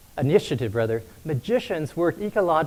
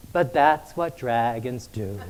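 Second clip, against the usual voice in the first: laughing dragon; 3 semitones lower, slower than usual. Retold or imitated.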